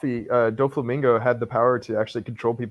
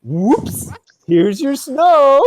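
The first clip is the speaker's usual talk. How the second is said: higher, slow goofy lord; silly high voice; 12 semitones higher, 6 dB louder, much slower than usual. Acted. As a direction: ham up a foolish lord. Reading a silly lord line.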